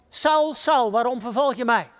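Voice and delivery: high, loud call from above; confronting call. Acted. Jesus confronting Saul from heaven, calling out. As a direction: ring out the name, then challenge.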